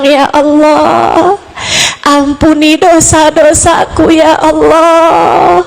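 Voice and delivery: stretched, pleading ya Allah; tearful prayer. Retold or imitated. Praying with tears for forgiveness, understated tearful plea. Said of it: "dengan linangan air mata kamu bilang".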